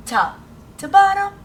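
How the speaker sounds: high, loud sing-song "top to bottom"; bright classroom cheer, high and loud; excited stroke call. Shown as a demonstration. Teacher demonstrating writing strokes.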